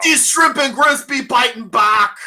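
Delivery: put-on Cajun accent. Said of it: "my Southerner".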